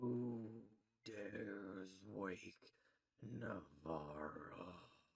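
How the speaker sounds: deep, very low, very slow, dragged-out voice. Game master voicing a being speaking to the players: very low voice. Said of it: "You just get this very low sound of".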